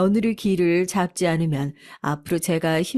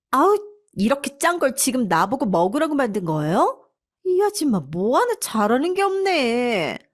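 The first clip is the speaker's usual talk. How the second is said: higher, sneering complaint; spoiled wife insulting the maid; contemptuous daughter-in-law; 6 semitones higher than usual. A narrator's reading. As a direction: scoff at the salty stew. Daughter-in-law rejects stew.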